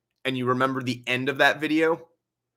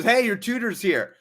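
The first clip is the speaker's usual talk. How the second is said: stepdad; 8 semitones higher than usual. Retold or imitated. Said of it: "goes back and says".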